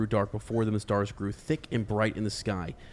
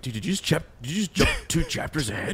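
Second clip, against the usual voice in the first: mock incredulous friend; 7 semitones higher, faster than usual. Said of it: "he's like".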